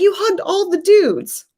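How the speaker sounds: voicing upset boyfriend.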